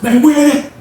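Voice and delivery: retold furious where that; demanding shout. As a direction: bark it at him, wanting answers. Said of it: "Slim was like".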